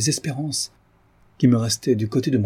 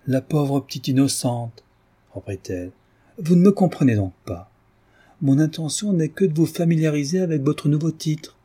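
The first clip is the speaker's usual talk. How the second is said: higher, lightly mocking lady; mocking tease; 4 semitones higher than usual. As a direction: tease the blushing girl. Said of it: "joui assez longuement de ma confusion".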